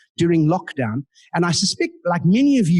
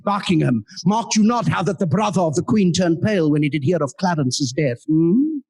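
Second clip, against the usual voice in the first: retold Shakespearean Richard. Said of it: "and I said".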